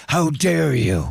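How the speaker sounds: slow, laughing mock indignation; mock outrage. Bandmate faking outrage at the leader, laughing. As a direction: ham up an offended protest. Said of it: "he goes".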